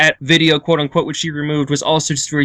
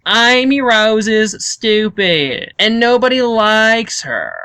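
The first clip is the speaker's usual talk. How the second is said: slow, higher emotionless drone; dull commentator impression; 5 semitones higher, much slower than usual. Imitating a boring YouTuber, very slow emotionless drone. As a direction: drag each word out with no feeling. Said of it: "And he sounds like that".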